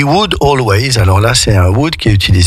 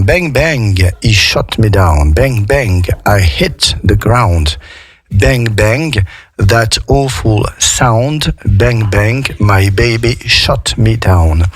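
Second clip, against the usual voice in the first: slow, careful reading of the song chorus; slower than usual. Shown as a demonstration. Teacher reading the chorus slowly for her class. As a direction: spell out the chorus slowly for learners.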